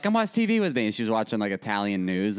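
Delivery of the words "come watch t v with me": 할머니가 같이 TV 보자고 부르는 높은 목소리; grandma voice. Retold or imitated. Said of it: "she was like".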